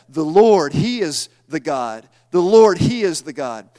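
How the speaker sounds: loud cries of "The Lord"; crowd proclaiming. Acted. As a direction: shout it out like a crowd on its faces. People fall on faces proclaiming.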